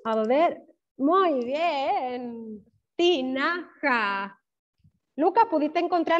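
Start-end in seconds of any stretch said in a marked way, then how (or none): 2.9-4.4 "Tinaja" very slow, each syllable held apart. Shown as a demonstration. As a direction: stretch out ti... na... ja in "Tinaja". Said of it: "encontraron todas las sílabas". ("Tinaja" muy lento, sílaba por sílaba)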